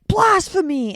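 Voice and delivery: high, indignant cry; hammed-up offended outburst; mock horrified Blasphemy; mock outrage. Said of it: "You would have been like".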